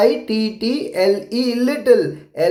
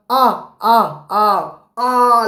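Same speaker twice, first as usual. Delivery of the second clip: monkey's cry; much slower than usual. Shown as a demonstration. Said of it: "तो फिर वो बंदर कैसे चिल्लाया?".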